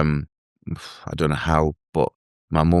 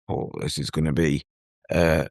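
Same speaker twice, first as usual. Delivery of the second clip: emotional; 2 semitones lower, 5 dB quieter than usual. Real, not acted. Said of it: "I get a bit emotional thinking about this bit".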